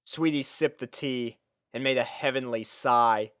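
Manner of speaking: ordinary talk, nothing marked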